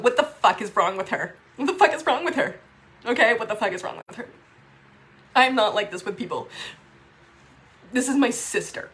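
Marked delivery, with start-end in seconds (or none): 0.0-4.3 louder, exasperated repeated question; angry disbelief. Real, not acted. Raging about her estranged sister, louder and exasperated. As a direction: vent it in real frustration. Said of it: "I've never been so angry".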